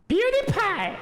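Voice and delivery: high drawn-out yell; catchphrase shout. Acted. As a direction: belt out the channel name. Shouting his own catchphrase.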